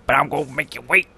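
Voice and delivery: a lightly put-on soft teasing voice; odd put-on voice. Host teasing co-hosts about the bumper in a soft put-on voice. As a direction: tease them softly in a strange voice. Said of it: "why I'm talking like this".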